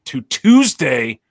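booming ringmaster announcement. Pretend. Circus ringmaster style show opening.

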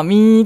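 drawn-out "mii" engine noise; imitated diesel train. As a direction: mimic a diesel train humming along. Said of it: "音を出して走るディーゼル". (ディーゼル列車の音まね)

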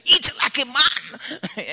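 slow, high, loud proverb voice; elder's saying. Retold or imitated. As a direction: boom it out like an old saying. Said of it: "most African will tell you, say".

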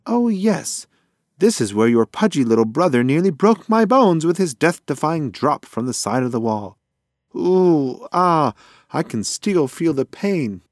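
high, squawky bird complaining of pain; whiny pigeon voice. Acted. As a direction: play the pigeon groaning over old aches. Pigeon Flicker whines about his bones.

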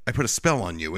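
low, deliberate conviction, lightly imitated; understated, possessive conviction; spoken with conviction. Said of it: "the conviction she uses".

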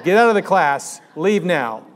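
loud, urgent warning to flee; yelling at the class to run; mock alarmed shout. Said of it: "I'd be like".

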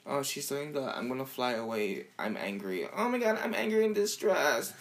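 mocking overacted distress. Poking fun at Brooklyn's acting, lightly overdone. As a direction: play the melodrama up in a mild mock. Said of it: "but I was like".

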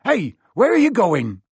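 calls after them in a fluster; a lightly voiced panicking Hagrid. A narrator's reading.

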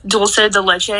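Spanish words in an American English accent; English-speaker accent. Shown as a demonstration. Guest avoids the cohost's teasing, deliberately American accent. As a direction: say Dulce de leche with plain American vowels. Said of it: "with an English accent".

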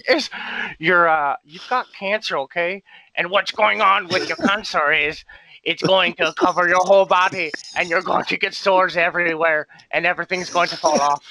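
lightly voiced celebrity doctor sliding into pirate; Owen Wilson turning pirate. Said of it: "Wilson slowly turning into a pirate".

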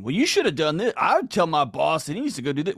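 a preachy husband telling his wife what to do; mock fix-it husband. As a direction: lecture her like a know-it-all husband. Husband fixing wife's problem, acted.

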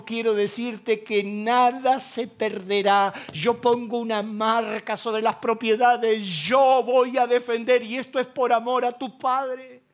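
voice of God. Retold or imitated. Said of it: "inconfundible vino la voz de Dios".

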